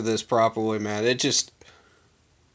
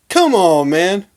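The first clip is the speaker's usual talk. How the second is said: high, loud "Come on"; heated exasperation; 4 semitones higher, 5 dB louder, slower than usual. Real, not acted. Fan scolding a jacket burner, louder exasperation. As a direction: burst out louder, fed up. Repeats the appeal, more heated.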